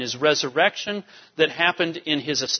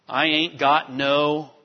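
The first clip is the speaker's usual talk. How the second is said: bad English; 2 semitones lower, slower than usual. Shown as a demonstration. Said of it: "that's not a good, good English".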